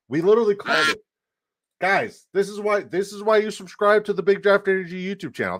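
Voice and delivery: high-pitched, hyped-up boasting; excited crowing. Real, not acted. Streamer telling viewers they called the win, excited high voice. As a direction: crow in disbelief that you predicted it.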